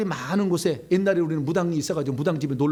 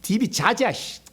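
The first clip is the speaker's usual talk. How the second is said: curt Gyeongsang husband; 7 semitones higher, 4 dB louder, slower than usual. Retold or imitated. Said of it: "경상도 남편은".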